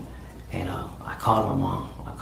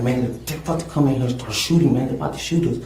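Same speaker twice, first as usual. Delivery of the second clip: higher, louder frightened warning; panicked warning; 4 semitones higher, 5 dB louder than usual. Retold or imitated. To Selena about the shooters, in a higher panicked warning. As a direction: warn her in a panic.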